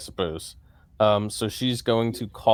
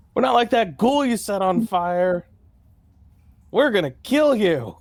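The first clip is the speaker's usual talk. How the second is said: very high-pitched, intimidating shouted yell; 11 semitones higher than usual. Voicing a character trying to intimidate a monster: character yelling intimidation.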